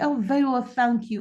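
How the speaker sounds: ordinary delivery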